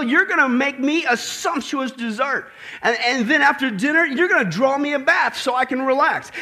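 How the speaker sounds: loud bossy man of the house; roaring tyrant king. Retold or imitated. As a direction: bellow orders like a pompous tyrant. Bill's demands to his wife continue.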